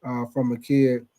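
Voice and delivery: a lightly done, soft-spoken caller bragging; imitating Snowy. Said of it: "You say".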